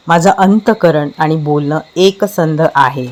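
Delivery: guided affirmation. Acted. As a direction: recite each affirmation deliberately, with long pauses between. Recites affirmations in guided meditation. (ध्यानातील सकारात्मक वाक्ये, संथ आणि थांबून थांबून)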